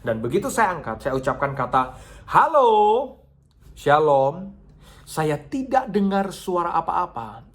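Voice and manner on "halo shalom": much higher and louder hello; loud phone greeting. Retold or imitated. Pastor answering a late-night call, loudly.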